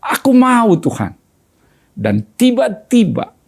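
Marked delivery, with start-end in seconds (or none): 0.0-1.1 broken pleading, each Tuhan fading away; mild sob-like plea for forgiveness; understated crying prayer; retold weeping prayer. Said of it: "Saya menangis".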